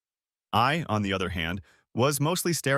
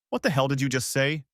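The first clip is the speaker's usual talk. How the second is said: stunned; 3 semitones higher than usual. Acted. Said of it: "Stunned, I spat out".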